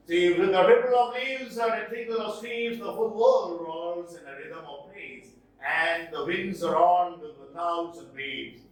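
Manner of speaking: rhythmic, connected verse delivery; poem recitation. Acted.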